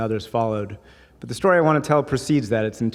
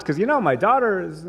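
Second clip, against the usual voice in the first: higher, stammering, flustered reply; 6 semitones higher, slower than usual. Retold or imitated. Customer dodging the shopkeeper's matchmaking, flustered and higher. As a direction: fumble the excuse, caught off guard.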